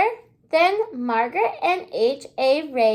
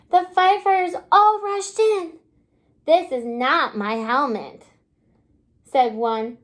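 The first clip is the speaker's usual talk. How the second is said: put-on lively read-aloud storybook voice for little kids; reading to children. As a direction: read the picture book to the class, bright and clear. Teacher reads picture book aloud.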